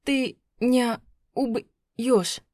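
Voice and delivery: slow strained rasp; choked wife pleading, slow and rasping. A narrator's reading. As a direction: force the words out while choked. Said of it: "хрипела я".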